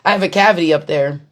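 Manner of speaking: talking through a swollen mouth. Real, not acted. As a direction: speak as if the gums are swollen. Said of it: "my mouth is swollen right now".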